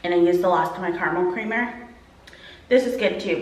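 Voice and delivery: ordinary talk, nothing marked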